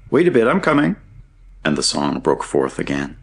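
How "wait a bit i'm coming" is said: high, carrying call from below; high-pitched answering shout; calling back. A narrator's reading. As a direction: holler up that you are on the way. Distant friend shouts back up shaft.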